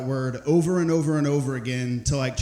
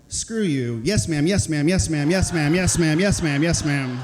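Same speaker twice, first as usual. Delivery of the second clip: cheeky cover-up; 3 dB louder than usual. Retold or imitated. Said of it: "I just said".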